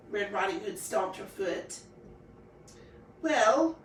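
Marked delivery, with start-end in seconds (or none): 3.2-3.8 yawn. A narrator's reading. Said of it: "yawned the wolf".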